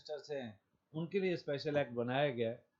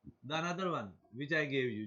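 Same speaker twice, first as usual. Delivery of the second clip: slow read-out; much slower than usual. Shown as a demonstration. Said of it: "teacher reading example sentence".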